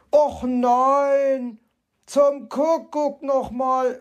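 exasperated. A narrator's reading. Fox appalled by the painted stars, exasperated cursing. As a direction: wail and curse in mild oaths.

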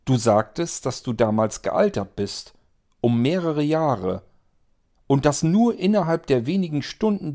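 agitated Franka. Acted. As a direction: press him hard with objections. Franka voiced, rising agitation. (Franka redet erregt auf Aid ein, höher und lauter)

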